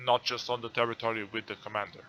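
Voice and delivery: talking while chewing a muffin; mouth full. Real, not acted. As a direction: speak through a mouthful. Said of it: "what are you eating".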